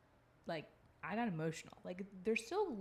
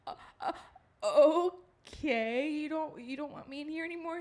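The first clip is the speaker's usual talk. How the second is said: much higher, laughing and stunned; laughing disbelief; 9 semitones higher, 9 dB louder than usual. Real, not acted. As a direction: giggle out the hurt question. Mom kicked out, laughing.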